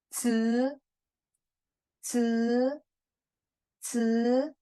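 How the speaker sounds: 吃 with a hissy ts start, held long; corrected model sound. Shown as a demonstration. Teacher correcting a reading as ji, drawn-out hissy 吃. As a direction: sustain 吃 evenly after the hiss. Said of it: "你不管鸡，no".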